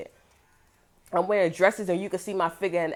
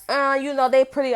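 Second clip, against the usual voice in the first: mock airy voice; 7 semitones higher, 6 dB louder than usual. Mocking other people's opinion.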